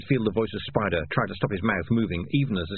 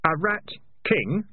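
slower, higher, rising query; sharp question; 9 semitones higher, slower than usual. A narrator's reading. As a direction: seize on the words with a questioning rise. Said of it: "said Keith sharply".

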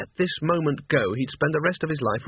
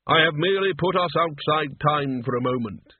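Death. Acted. Narrator voices Death.

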